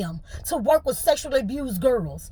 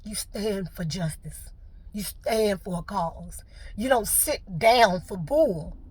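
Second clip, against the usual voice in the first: put-on firm advice to kids; 5 dB quieter, slower than usual. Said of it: "I've always told them".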